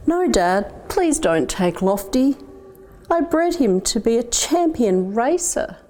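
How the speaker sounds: put-on a boy begging his dad not to take his bird; pleading boy. Boy begging father to spare pigeon.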